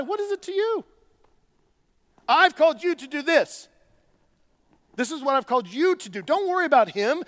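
a hint of a firm teacher; Jesus correcting Peter. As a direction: lovingly set him straight. Voicing Jesus answering Peter.

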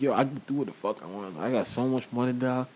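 low, lazy southern drawl. Retold or imitated. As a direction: drawl it low like a boasting rapper. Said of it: "with that little southern drawl".

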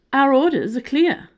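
loud, high, unyielding. Acted. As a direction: stand firm and say it hard. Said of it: "holding firm".

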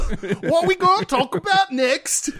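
high, drawn-out mock cockney; cockney accent. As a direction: ham up a slow cockney question. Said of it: "do this with an accent".

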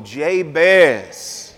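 soulful, drawn-out Jabez. Shown as a demonstration. Preacher showing the congregation how to say Jabez, with soul. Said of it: "Say it with some soul in your soul".

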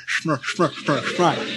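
sm-, sm-, sm-, smile sounded out, then the whole word; sounding out words. Retold or imitated. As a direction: stutter the sm before smile. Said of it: "the lips disappear".

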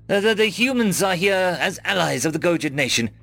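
croaked plea. A narrator's reading. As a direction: stammer it out, straining upward. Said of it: "I croaked".

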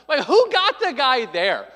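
real laughter at the absurd booking; laughing. Real, not acted. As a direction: laugh through the question. Laughing at his own joke.

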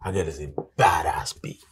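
breathy reverent whisper; hushed in awe. Real, not acted. Reverent praise of girl.

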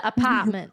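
"apartment" with the R dropped; Boston "apartment". Retold or imitated. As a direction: say "apartment" as "apahtment". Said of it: "Or he did".

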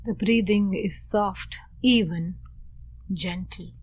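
unhurried meditation guidance, long silences between phrases; guided meditation. Real, not acted. Teacher guides students into posture and breath, calm meditation voice. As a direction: gently settle listeners with spare, measured phrases.

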